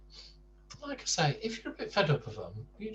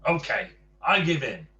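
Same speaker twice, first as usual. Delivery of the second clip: grudging surrender; 3 semitones higher, 8 dB louder than usual. Acted. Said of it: "said Mister Rude".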